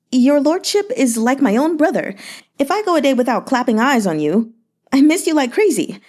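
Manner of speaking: a fawning, flattering merchant, lightly voiced; Yan Hezhu's voice. Merchant flattering the grieving governor, sugary and light.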